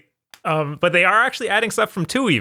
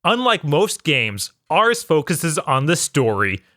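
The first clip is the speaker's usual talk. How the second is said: quoted developer blurb; slower than usual. Retold or imitated. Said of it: "the guy literally saying".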